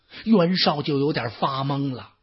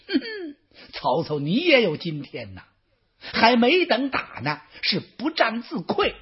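gloating warlord; 6 semitones higher than usual. Acted. Yuan Shao gloats while chasing.

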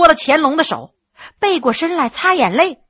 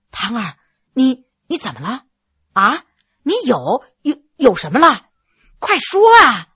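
anxious urging. Acted. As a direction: press her anxiously for the news. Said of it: "着急地说". (着急地追问，越说越急)

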